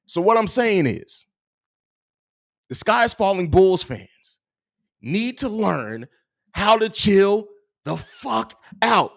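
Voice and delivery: slow, high, drawn-out dramatic delivery; slow mock-dramatic pundit voice; Pat the Designer impression. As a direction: draw every word out with dramatic pauses. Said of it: "I gotta do my Pat the Designer".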